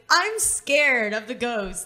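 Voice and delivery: slow, whiny scared voice; imitating a frightened friend; mock scared. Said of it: "she was like".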